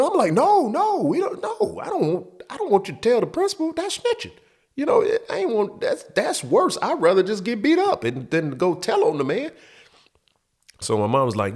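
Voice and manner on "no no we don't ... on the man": panicked pleading. Retold or imitated. Kid begging mom not to snitch.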